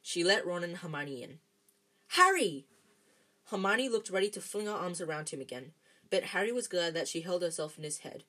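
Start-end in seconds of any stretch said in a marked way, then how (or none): 2.1-2.7 high, loud exclamation of a name; excited cry. A narrator's reading. Hermione rushing to greet Harry, excited cry. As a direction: call out in excited relief.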